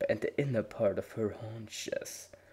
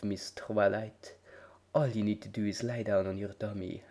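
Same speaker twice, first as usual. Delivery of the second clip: soothing whisper. Acted. Spa pony soothing client.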